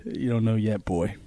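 ordinary talk

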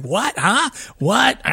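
high, puzzled squeaky whats; imitating Miriam's confusion. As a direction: mimic a friend baffled on the phone. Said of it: "She's like".

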